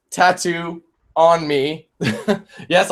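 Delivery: laughing slowly as he reads; slow words broken by a laugh. Real, not acted. Reacting to a funny comment.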